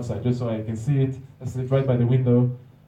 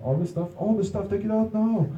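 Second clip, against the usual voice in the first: mock screaming; 8 semitones higher than usual. Officer ordering the backpack emptied, high mock screaming. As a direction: imitate a screaming officer without real volume. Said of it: "he's screaming".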